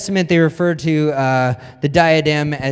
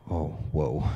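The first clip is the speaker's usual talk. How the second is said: stunned realisation; 13 semitones lower, 9 dB quieter than usual. Retold or imitated. Stunned boy hears dad's threat.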